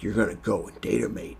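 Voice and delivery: put-on first rough stab at an Australian accent; unconvincing Aussie imitation; terrible Australian accent. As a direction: imitate Butcher with a badly faked Australian accent. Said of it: "That was a terrible Australian accent".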